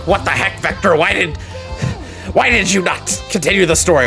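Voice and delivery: ordinary talk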